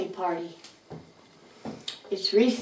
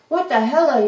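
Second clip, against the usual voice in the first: narrated outraged shout, higher and louder; storybook outburst of anger; angry shout; 5 semitones higher, 6 dB louder than usual. A narrator's reading. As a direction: shout it as a mad rat character. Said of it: "he shouts".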